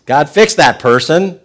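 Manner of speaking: loud, high, mock complaining prayer; mock whiny prayer. Believer begs God to fix annoying people, mock whiny. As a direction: pray like a petulant believer. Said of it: "One of my favorite things".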